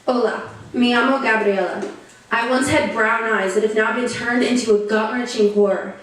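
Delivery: earnest first-person poetry recital; solemn, rhythmic performance; spoken-word poem. Acted. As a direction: recite a survivor's testimony in measured phrases.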